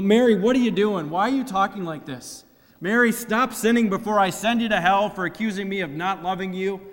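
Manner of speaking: loud, furious shouting at Mary; harsh scolding. Pretend. The harsh way Jesus could have answered his mother, furious shout. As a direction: blast her with an angry rebuke. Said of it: "could have responded to his mom in a lot of different ways".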